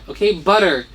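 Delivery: normal talking voice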